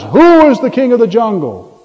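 hammed-up demand with a stretched WHO; mock lion roar. Lion challenging a big elephant, mock roar. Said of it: "roared in the monkey's face".

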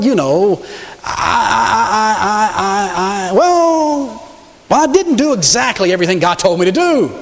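hemming and hawing, caught out; a king caught lying, stammering excuses; flustered stammering king. Acted. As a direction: stall for time with every uh. Saul justifying himself.

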